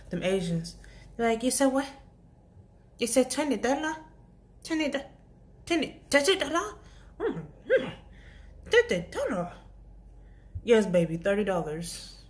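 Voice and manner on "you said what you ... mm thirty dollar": high, rising mock Asian accent. Cashier mimicking an Asian customer haggling, mock Asian accent. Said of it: "my Asian accent about to come out".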